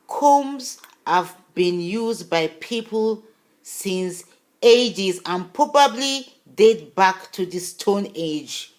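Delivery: slow, careful read-aloud of a web text; slowly reading a website passage aloud to viewers. Shown as a demonstration. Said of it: "listen to this".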